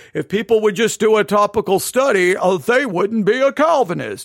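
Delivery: mocking, condescending know-it-all tone. Imitating someone who makes accusations, with mocking condescension. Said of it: "now I'm doing a little bit of mocking".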